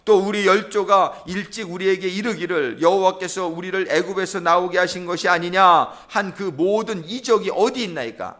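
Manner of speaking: declaimed scripture as a mild protest; Gideon. Acted. Preacher reading Gideon's plea to the Lord, challenging. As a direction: read it out as a complaint to God. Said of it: "따지는 거예요".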